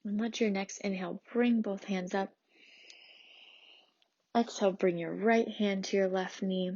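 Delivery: measured, soothing prenatal yoga teacher; gentle yoga instruction. Acted. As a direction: lead a calm restorative class, leaving long pauses. Leads a restorative yoga practice.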